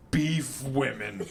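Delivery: slow, giggling password; fighting off laughter on the silly word; laughing. Acted. Reading the password aloud, dissolving into laughter. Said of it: "Hermione cried".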